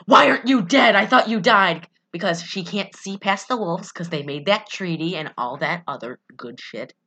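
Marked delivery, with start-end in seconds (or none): 0.1-1.9 mock astonishment. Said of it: "Alice is like".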